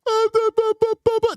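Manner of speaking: high mock stutter of fake grief; mock stammer. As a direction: parody a faked, halting sob. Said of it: "with this measured".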